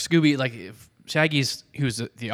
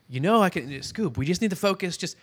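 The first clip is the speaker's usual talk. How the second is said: pleading; 7 semitones higher than usual. Acted. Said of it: "Scooby's trying to be like".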